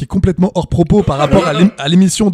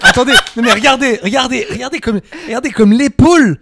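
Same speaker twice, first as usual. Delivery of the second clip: in ice cold water; 6 semitones higher, 4 dB louder than usual. Real, not acted. Ice cold water running down back.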